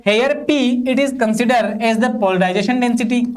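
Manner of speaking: slow, even reading for students to copy; slow dictation. Shown as a demonstration. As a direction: dictate each word slowly so they can write. Dictating a definition. (धीमे-धीमे notes लिखवाना)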